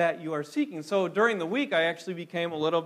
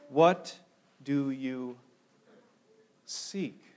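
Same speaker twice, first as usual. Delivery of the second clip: gentle searching question; 4 semitones lower, much slower than usual. Retold or imitated. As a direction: ask it tenderly, letting it fade. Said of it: "one of the translations has it this way".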